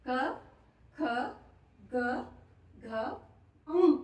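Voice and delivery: each consonant said alone, with a pause after each; sounding out letters. Shown as a demonstration. Teacher sounding out the क वर्ग for students, slow and distinct. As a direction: sound out क, ख, ग, घ, ङ one by one. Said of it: "कौन कौन से?".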